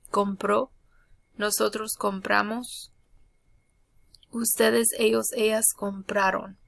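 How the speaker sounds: careful teacher's Spanish; Spanish pronunciation demo. Shown as a demonstration. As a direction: model the conjugations for students to copy. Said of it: "I'll go over the pronunciation".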